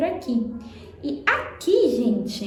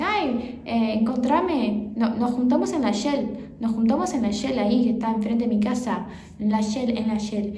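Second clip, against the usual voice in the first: Argentine Spanish quote. Retold or imitated. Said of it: "era muito comum eu falar assim".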